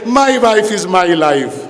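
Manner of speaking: slow, drawn-out mocking voice of a showy husband; mock husband caption. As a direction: sneer it out like a lovesick poser.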